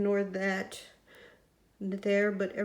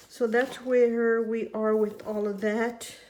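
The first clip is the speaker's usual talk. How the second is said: squeaky voice. Real, not acted. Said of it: "my voice is squeaky today".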